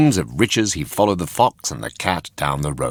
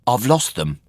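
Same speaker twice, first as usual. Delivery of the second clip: lying puppet; 6 semitones higher than usual. Acted. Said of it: "said Pinocchio untruthfully".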